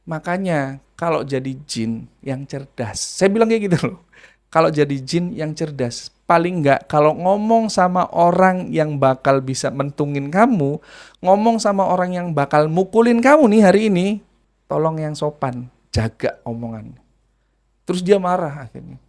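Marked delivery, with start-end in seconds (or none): 0.0-3.0 mocking tease. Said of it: "saya terus ngeledekin aja gitu". 4.5-17.0 mocking lecture. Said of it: "saya terus ngeledekin aja gitu".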